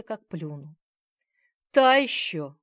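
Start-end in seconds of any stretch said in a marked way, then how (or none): 1.7-2.6 agreeing. A narrator's reading. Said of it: "кивнула я".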